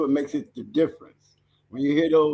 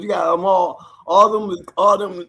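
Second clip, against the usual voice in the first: hyped shout; 3 semitones higher, 5 dB louder than usual. Real, not acted. Hyping up the old dog kennels.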